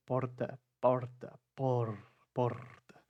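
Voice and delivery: porta with a tapped r, not from the throat; failed paulista R. Shown as a demonstration. Teacher imitating a struggling student, wrong tongue r in porta. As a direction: try for a throaty r in porta but tap it with the tongue. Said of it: "não é a mesma coisa".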